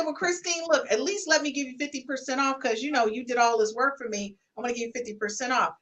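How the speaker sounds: gentle offer. Retold or imitated. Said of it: "But you can say".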